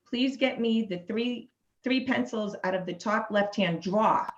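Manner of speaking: light Boston accent on a sample sentence. Shown as a demonstration. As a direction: let a trace of Boston slip into "drawer". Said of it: "didn't pick up too much of an accent".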